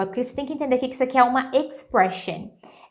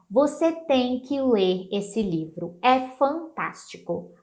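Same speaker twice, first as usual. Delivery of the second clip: slow, emphatic urging with TEM stretched; enthusiastic recommendation. Shown as a demonstration. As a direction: press "tem" as a must-do out of enthusiasm. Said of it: "vai depender da minha entonação. Eu posso falar assim".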